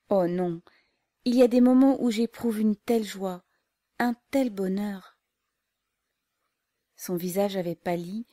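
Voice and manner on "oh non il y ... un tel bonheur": loud burst of joy; joyful outcry. Acted. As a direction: cry out in sudden rapture. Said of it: "s'écria".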